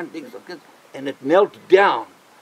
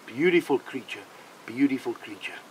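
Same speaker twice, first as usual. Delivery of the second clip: soft, tender praise, trailing quieter; gentle soothing; 3 semitones lower, 7 dB quieter than usual. Acted. Man patting a buck like a horse, gentle soothing. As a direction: soothe a big animal softly.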